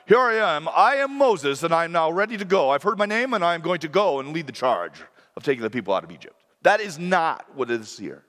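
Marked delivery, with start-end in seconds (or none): 0.0-6.4 confident volunteer, rushing the end; eager heroic answer. Shown as a demonstration. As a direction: announce it like a hero stepping forward. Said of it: "It's not like".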